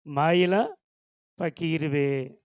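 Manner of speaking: మాయల stressed, పకీరువే falling; slow repeat of మాయల పకీరువే; repeating the insult. Shown as a demonstration. Preacher repeating the girl's words to the congregation. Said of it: "ఏమన్నది?".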